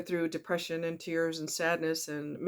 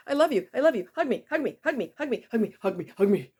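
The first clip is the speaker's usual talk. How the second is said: high, needy pleading of a clingy partner; smothering clingy lover; 4 semitones higher, faster than usual. Retold or imitated. Clingy partner begging for affection, high and needy. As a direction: beg for hugs like a smothering lover. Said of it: "I don't mean smothering kind of love".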